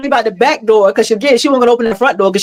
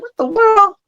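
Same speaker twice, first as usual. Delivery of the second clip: startled what; 12 semitones higher, slower than usual. Retold or imitated. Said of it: "She's like".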